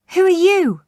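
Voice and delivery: frightened cry. Acted. Terrified Macbeth cries out to the witches, high and loud. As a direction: cry out, trying to sound brave. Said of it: "cried Macbeth".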